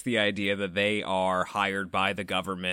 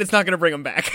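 quoting the wife through laughter; giggly imitation of a pleading wife; laughing while mimicking the ex-wife; laughing mock plea; 5 semitones higher, 5 dB louder, faster than usual. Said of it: "I think she said".

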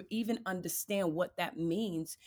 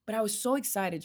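whispered excitement; faster than usual. Real, not acted.

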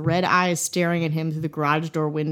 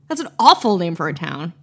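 usual speaking voice

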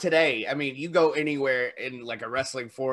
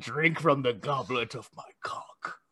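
whisper; 4 dB quieter than usual. Retold or imitated. Mocking vampire line in whisper.

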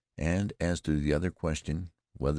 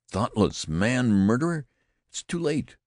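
high, loud tragic wail; great tragedian; 9 semitones higher, 6 dB louder than usual. A narrator's reading. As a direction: cry it out like a stage tragedian. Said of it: "cried Wallace".

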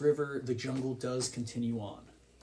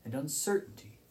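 scene setting; 4 dB quieter than usual. Acted. Game master setting the scene for players, hushed narration. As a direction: paint the strange new land softly.

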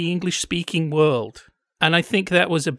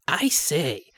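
posh English gentleman. Retold or imitated. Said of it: "he does seem to have that kind of voice".

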